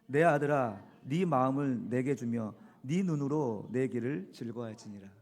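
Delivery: loud, punchy Gyeongsang dialect reading. Shown as a demonstration. Pastor reading the verse to his congregation in Gyeongsang dialect. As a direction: read the verse like a blunt Gyeongsang father. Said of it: "경상도 말로 한번 읽어보죠".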